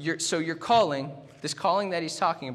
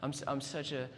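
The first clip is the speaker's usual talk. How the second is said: mock self-pity; 2 semitones lower, 6 dB quieter than usual.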